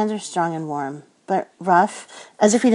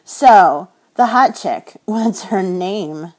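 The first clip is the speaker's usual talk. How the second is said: teasing coworker; 2 semitones higher, 9 dB louder, much slower than usual. Acted. Charlie teasing, higher and louder.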